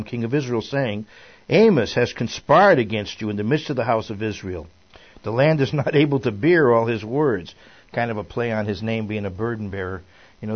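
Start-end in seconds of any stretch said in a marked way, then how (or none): 1.5-7.5 scripture reading. A narrator's reading. Reads scripture aloud to group.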